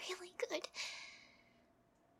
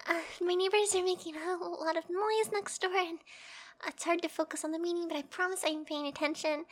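acting normal; 5 dB louder than usual. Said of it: "pretend like nothing's happening".

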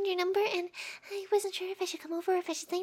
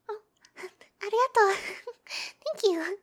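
giggly thanks; 4 dB louder than usual. Acted. Giddy thanks after getting number.

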